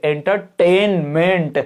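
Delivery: entertainment, stress on the tain syllable. Explaining word stress with an example: stress on tain in entertainment. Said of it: "stress दिया मैंने टेनमेंट पे".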